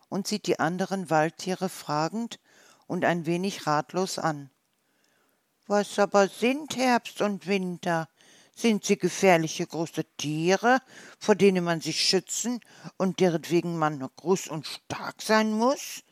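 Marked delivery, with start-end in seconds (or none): 5.7-16.0 wondering little hedgehog. Acted. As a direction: ask innocently about the seasons. Little hedgehog asking worried.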